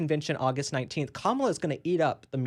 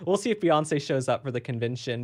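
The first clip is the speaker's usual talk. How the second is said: normal talking voice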